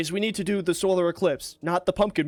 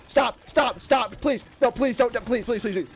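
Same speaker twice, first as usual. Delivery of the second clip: anguished denial; 3 semitones higher than usual. Real, not acted. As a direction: beg it to stop, fading into despair. Begging the game to stop.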